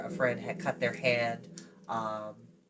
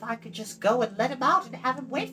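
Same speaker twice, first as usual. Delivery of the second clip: put-on high, bright girlish voice, proud of her ancestry; young girl Eilonwy; 10 semitones higher than usual. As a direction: play the chattering young princess.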